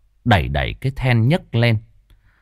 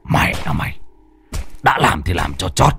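through gritted teeth; 3 semitones lower than usual. A narrator's reading. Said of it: "nghiến răng nghiến lợi".

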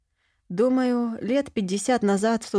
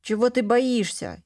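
put-on a boy teasing his sister, voice lightly raised; daring kid, egging her on; child's voice; 4 semitones higher than usual. Boy goading his sister into the bushes, lightly childlike. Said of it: "послышался детский голос".

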